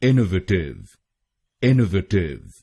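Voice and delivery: इनोवेटिव with the weight on इन; stress on first syllable. Shown as a demonstration. Teacher shows stress on इन in इनोवेटिव. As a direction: lean on इन, keep the rest light. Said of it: "आईएनएन पर जोर डालना है".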